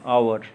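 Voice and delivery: आवर starting on an "ow" glide; OU diphthong. Shown as a demonstration. Teacher showing OU said as आओ, gliding start to आवर. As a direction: say आवर as "aa-war". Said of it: "आओ की तरह".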